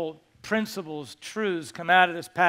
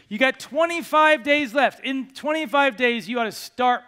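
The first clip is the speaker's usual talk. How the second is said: urgent push; 5 semitones higher, 4 dB louder than usual. Acted. Urging congregation with deadline.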